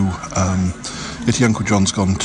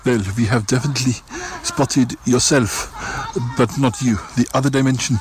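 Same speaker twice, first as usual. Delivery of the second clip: lightly raised, odd character voice; Cromitty voice; 2 semitones higher than usual. Acted. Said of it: "It is me, Cromitty".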